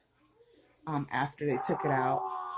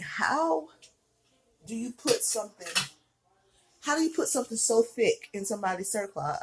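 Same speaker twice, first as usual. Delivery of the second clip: disbelieving question, pitched up at the start; incredulous; 4 semitones higher than usual. Retold or imitated. Patient questions the thick stitch, incredulous.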